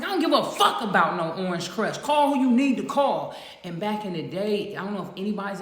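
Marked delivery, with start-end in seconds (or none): 0.0-2.0 loud defiance. Retold or imitated. Retold defiance, louder retort. 2.0-3.3 louder and higher, daring them; defiant shout. Retold or imitated. Retold defiance at the officer.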